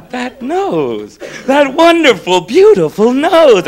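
drawn-out wonder, slowing at the end; awed admiration. Acted. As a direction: marvel theatrically, savouring each word. Acted Santa marvelling at the nose.

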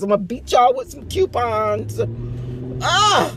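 hammed-up threat ending in a loud yelp; joking threat with a shriek; mock threat. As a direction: play the crazed mother, lightly. Mock Mommy Dearest threat.

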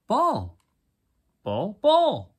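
high loud yapping dog; yappy panting puppy. Acted. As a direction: bark it like an eager little dog.

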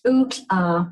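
"ook" opened with a popped tl, air released at the side; "ook, uh" as tl'ook, break, uh; ejective barred lambda. Shown as a demonstration. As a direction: pop a cheeky tl before "ook". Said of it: "it's always ejective".

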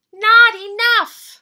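high, eager cub voice; sweet little bear cub. Acted. Little Brown Bear's voice.

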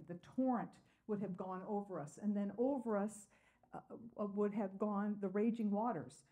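measured reading of the psalm to the congregation; scripture reading. Acted. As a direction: read it out steady and earnest. Reads the psalm aloud.

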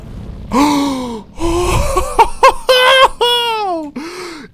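high gasp, half laugh half cry; gasp of joy. Real, not acted. Mission finally won.

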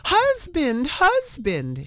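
high eager calling out; excited call. A narrator's reading. Wife calling her husband to see the egg, excitedly. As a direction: call him over with a hint of excitement. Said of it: "she cried".

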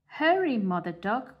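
high, loud duck call. Acted. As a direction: shout it high across the yard. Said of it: "called the other ducks".

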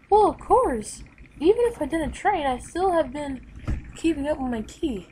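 bright confident hero boasting of his training; Goku voice. Acted.

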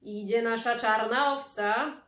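loud call. Acted. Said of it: "zawołał tata".

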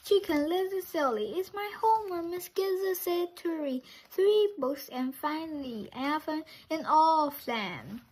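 high, fast chick voice; chirpy child. Acted. Chick telling Papa about homework in a high chirpy voice. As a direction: explain it brightly like a kid.

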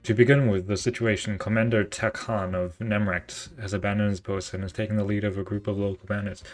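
put-on a light British officer accent; a hint of a British commanding officer. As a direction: play the Admiral with a mild British accent. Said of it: "He's British".

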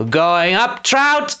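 high-pitched mild call upward; yelled. Acted. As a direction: call up to a mate, voice rising high. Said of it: "Gristle yelled".

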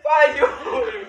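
cheering shout. Real, not acted. Cheering friend on push ups.

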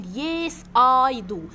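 yes I do, spoken slowly with I stressed; slow model answer. Shown as a demonstration. Teacher models yes I do slowly for the class. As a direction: lay out yes I do word by word, leaning on I. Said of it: "اليو في السؤال بتتبدل في الإجابة ل I".

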